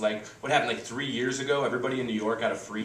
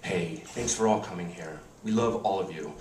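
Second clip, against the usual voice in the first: low, softened mock-tender announcement; warm host's toast; 4 semitones lower, 3 dB quieter than usual. Couple addresses dinner guests, warmly announcing. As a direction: address guests with gentle sincerity, hammed up.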